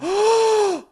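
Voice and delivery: big high-pitched gasp; astonished gasp. Real, not acted. Co-host shown how swiping works, astonished gasp. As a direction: gasp as if floored by the news.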